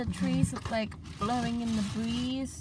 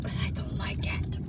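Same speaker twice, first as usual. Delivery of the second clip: whisper; 4 dB quieter than usual. Real, not acted. Aside dislike.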